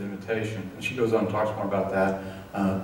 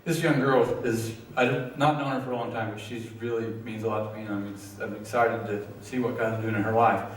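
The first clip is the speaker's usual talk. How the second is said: moved, fighting back tears; real emotion catching in the throat as he speaks of her; choked up. Real, not acted. Group leader moved speaking of the young woman, choked up. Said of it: "Sorry, I get emotional".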